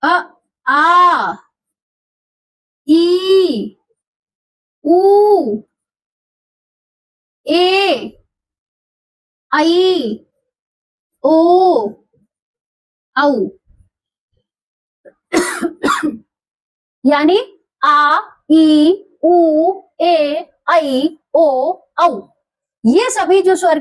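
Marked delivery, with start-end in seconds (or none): 0.0-13.5 each of आ, ई, ऊ, ए, ऐ, ओ, औ stretched long; teacher's drawn-out long vowel demo. Shown as a demonstration. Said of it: "वह स्वर कहलाएगा दीर्घ स्वर". 17.0-22.2 slow recital of आ, ई, उ, ए, ऐ, ओ, औ; teacher repeating the long vowel list; long vowels recited. Shown as a demonstration. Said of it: "दीर्घ स्वर".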